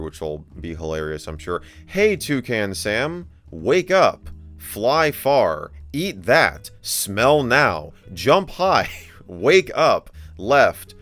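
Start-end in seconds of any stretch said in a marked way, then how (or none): 1.9-10.9 loud, slow, over-enunciated commands; hammy command reading. Pretend. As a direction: read the training lines like barking orders at a pet. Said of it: "we just have to read this out here".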